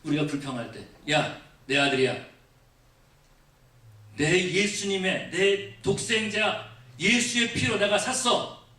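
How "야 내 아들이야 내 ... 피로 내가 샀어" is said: slow, weighty claim of ownership; God rebuking a complainer. Acted. Preacher voicing God defending His child, slow firm rebuke. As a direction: lay claim firmly, word by word. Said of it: "주님께서 그렇게 말씀하실지 모른다라는".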